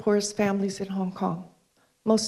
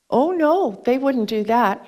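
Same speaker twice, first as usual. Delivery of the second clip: retold emphatic denial; 3 semitones higher, 4 dB louder than usual. Girl dismisses idea of parents talking.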